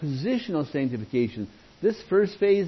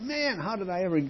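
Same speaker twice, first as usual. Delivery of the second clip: retold amazement; 8 semitones higher than usual. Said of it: "and I thought".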